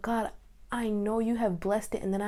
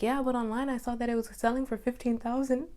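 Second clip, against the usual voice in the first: small, sad, higher-pitched voice; sad protest; 4 semitones higher than usual. Retold or imitated. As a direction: push back meekly, sounding let down. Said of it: "And I was so sad, but I didn't say it like that".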